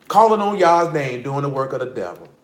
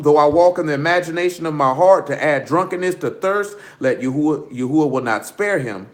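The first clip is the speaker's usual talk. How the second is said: steady, formal reading of the verses; scripture reading. Acted. Preacher reading Deuteronomy to his listeners, formal reading. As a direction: read the law out to the room.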